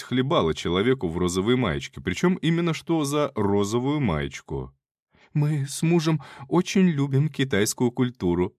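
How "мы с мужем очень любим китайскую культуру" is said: lady voice. Acted. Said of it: "продолжила барышня".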